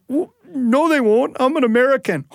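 high, insistent denial; naive indignant protest. Retold or imitated. Stowaway tells the French guy he's safe, high and indignant. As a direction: protest with boyish confidence.

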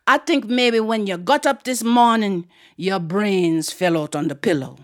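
lightly voiced island aunt, scolding; Aunt Queenie. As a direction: send a child off with an aunt's dry scolding. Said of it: "that deep voice".

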